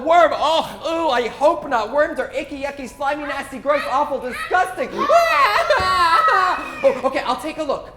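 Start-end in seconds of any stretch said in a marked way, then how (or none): 0.4-4.9 mock disgust, listing icky words; playful disgust; grossed out. Disgust at worms. 4.9-6.8 high hammed-up crying wail; loud mock wail. Worm cries louder.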